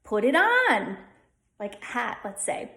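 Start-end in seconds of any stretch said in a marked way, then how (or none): 0.0-1.0 Midwest. Shown as a demonstration. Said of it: "In the Midwest, they would say".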